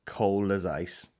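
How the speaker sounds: drawn out word by word; slow deliberate repeat. Real, not acted. Comedian rating his friend, drawn out slowly. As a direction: let each word land slowly. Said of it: "slow repeat".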